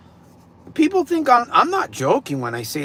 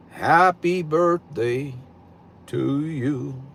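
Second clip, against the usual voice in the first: radio voice; 3 semitones lower, much slower than usual. Shown as a demonstration. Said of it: "Here's my radio voice".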